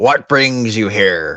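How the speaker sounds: swashbuckling pirate voice. Playing a dragon who greets a visitor, in a pirate voice. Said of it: "That's fucking pirate voice again".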